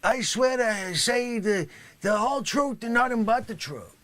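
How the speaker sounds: hammed-up yelled oath; overblown oath. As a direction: bellow the oath far too big. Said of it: "not quite good enough there".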